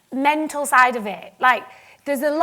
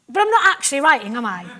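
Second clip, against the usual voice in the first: louder, faster protest; 6 dB louder, faster than usual. Retold or imitated. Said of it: "And I was like".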